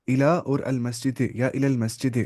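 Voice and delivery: حامد الی المسجد spoken slowly word by word. Shown as a demonstration. Teacher counting the words for students, slow. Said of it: "چار لفظ".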